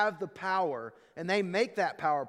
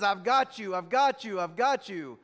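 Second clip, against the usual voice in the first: mock drunk gloating; 5 dB louder than usual. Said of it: "he started laughing maniacally".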